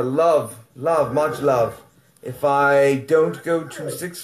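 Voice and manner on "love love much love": slow, drawn-out much love; warm sign-off. Real, not acted. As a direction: linger on each love. Outro sign-off.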